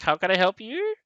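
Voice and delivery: a sudden high, meek customer-service voice; mock high-pitched voice. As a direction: voice jumps up high, suddenly polite. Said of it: "he's just got really high pitched".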